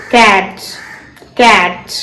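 teacher demo of catch; silent t in catch. Shown as a demonstration. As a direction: catch said with the t barely heard. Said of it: "ടി നമുക്ക് കേൾക്കുന്നില്ല".

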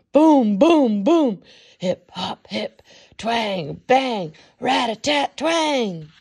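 band noises. A narrator's reading. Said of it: "I hear lots of twanging and banging".

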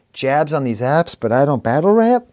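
a lightly put-on Rochester accent. Reviewer quoting the rapper in a Rochester accent. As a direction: quote the line in a mild Rochester accent. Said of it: "Saying that with a Rochester accent".

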